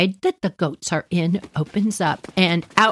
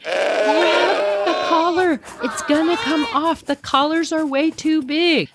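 urgent shout; 8 semitones higher than usual. Retold or imitated. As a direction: warn him fast before it slips.

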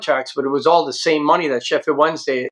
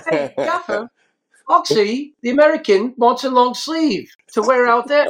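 mocking call to the boss; 10 semitones higher than usual. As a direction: call across to the gaffer, making fun of him. Physio calls out to the manager.

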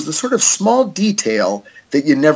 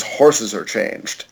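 low, slow, deadpan alien; 4 semitones lower, much slower than usual. Retold or imitated. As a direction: drag it out low like an eerie alien. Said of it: "And then the alien says".

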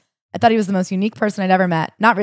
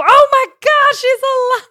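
much higher, louder, startled shopper; mock shocked gasp; 6 dB louder, slower than usual. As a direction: gasp it like a stunned onlooker. Shoppers startled by blinking mannequin.

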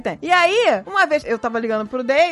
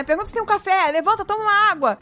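higher, pushing urging; urgent mock plea; 6 semitones higher than usual. Wife retelling urging husband to wake, higher. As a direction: urge him awake from afar. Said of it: "Eu comecei assim".

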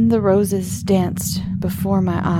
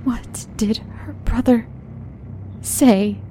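asked faintly; 4 semitones higher than usual. Acted. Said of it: "I asked faintly".

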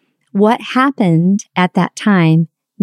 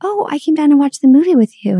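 cheerful arrival; 8 semitones higher than usual. Retold or imitated. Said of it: "And I said".

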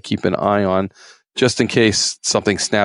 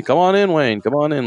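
high, chummy welcome to the warden; overly friendly welcome; 7 semitones higher than usual. Retold or imitated. Poacher invites the game warden in, mock chummy. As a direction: greet him like an old buddy. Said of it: "like we're best buds".

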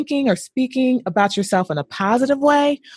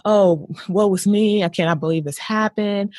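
self-pitying woe. Retold or imitated. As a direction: moan it like a victim. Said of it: "Is it".

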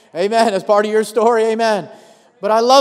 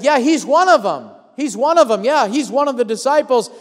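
higher-pitched, mildly acted accuser; insistent accusation; 4 semitones higher than usual. Bystander pointing out Peter as a disciple, insistent.

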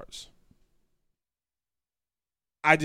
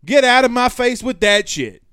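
fed up; 7 semitones higher, 7 dB louder than usual. Real, not acted. Fed up with rival fans.

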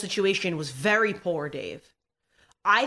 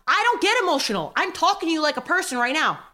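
higher, insistent rebuttal; raised voice; 4 semitones higher than usual. Real, not acted. Guest rebutting the host's accusation, insistent. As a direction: insist on being the reasonable one. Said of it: "Why are you yelling?".

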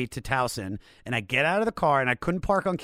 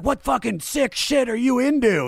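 higher, louder mock outrage; imitated angry boyfriend; 11 semitones higher, 6 dB louder than usual. Boyfriend yelling at him on phone, mock outrage. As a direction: play the furious boyfriend.

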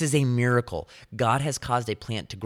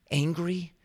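higher, questioning echo of the word; mock indignant echo; 7 semitones higher than usual. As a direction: repeat it back in disbelief. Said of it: "Jonah's response".

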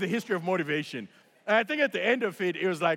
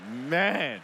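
mock mad; 4 semitones lower than usual. Jumper annoyed at Pam enjoying the jump, mock mad. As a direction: play up the annoyance for laughs. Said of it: "I was so mad at her".

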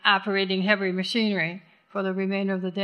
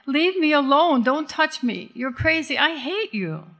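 crying out; 5 semitones higher than usual. Acted. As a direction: cry it out, pushing her away.

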